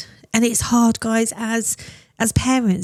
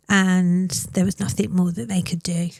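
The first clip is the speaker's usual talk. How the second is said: whispered grief. Real, not acted. Devastating news of relapse.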